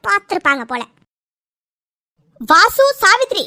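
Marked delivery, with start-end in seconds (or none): 2.5-3.4 higher-pitched scolding call; raised voice to silence a squabble; sharp reprimand. Acted. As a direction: cut them off by calling their names sharply. Silencing two quarrelling relatives.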